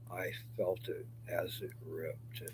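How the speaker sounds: slow whispered memory of pain; hushed whisper. Real, not acted. To viewers about the hernia ripping, a slow hushed whisper. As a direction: whisper it slowly, reliving it.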